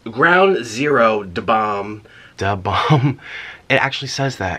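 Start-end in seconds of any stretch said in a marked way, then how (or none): 0.1-3.2 low dramatic voice. Pretend. Reading hot sauce name.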